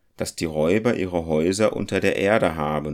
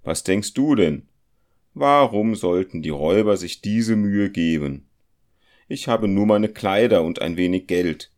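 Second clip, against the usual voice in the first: louder, brushing off his friend's fears; a confident companion waving worries away, louder; scoffing compass-smith; 5 dB louder than usual. Acted. The compass-smith voiced in the story. (spöttisch beruhigender Zirkelschmied, lauter)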